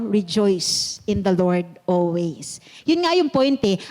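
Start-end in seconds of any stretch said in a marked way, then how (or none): 0.1-2.6 softer, lower, slow; quiet slow quote. Retold or imitated. Pastor quoting Paul in prison, calm and slow. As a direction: hand the verse down gently. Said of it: "ang sinabi niya pa rin".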